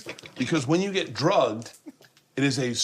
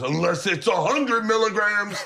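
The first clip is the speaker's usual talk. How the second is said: high, rising mock taunt; spring the catch on the victim; hammed-up high punchline; gleeful sly reveal; 8 semitones higher, 3 dB louder than usual. Retold trickster springs the reveal.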